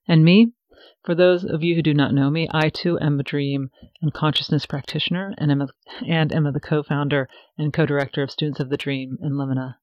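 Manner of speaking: measured, evenly read host intro; scripted podcast introduction. Acted. Host introducing her guests and retreat to listeners, scripted intro read. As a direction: read the prepared intro clearly, phrase by phrase.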